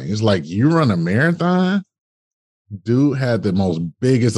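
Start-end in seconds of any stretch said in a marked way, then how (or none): 0.5-1.8 high, scoffing question; mocking disbelief. Doctor scoffing at his marathon plan, high disbelief.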